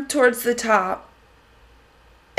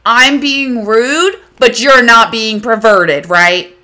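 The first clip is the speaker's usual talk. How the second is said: sarcastic; 4 dB louder, slower than usual. Retold or imitated. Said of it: "I said".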